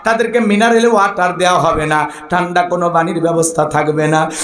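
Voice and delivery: sing-song explanation on a level note; melodic preaching. Acted. Preacher explaining the verse to congregation, melodic preaching. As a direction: intone the translation evenly.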